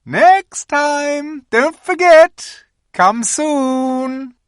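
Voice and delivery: high, loud repeated call; Queen calling back to Edmund, loud. A narrator's reading. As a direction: keep calling as she drives away. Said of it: "calling out".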